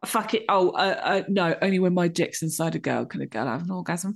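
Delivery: lightly voiced macho bloke; mocking a man. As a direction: sneer his words back at him. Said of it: "of what a man".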